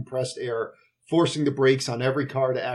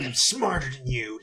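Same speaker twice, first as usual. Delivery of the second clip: a light Trump impression, smug; lightly voiced Trump boasting; mock Trump voice; 4 dB quieter than usual. Retelling Dennis Hopper's line in a mock Trump voice. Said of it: "I'm doing a Trump acc-, uh, Trump impression".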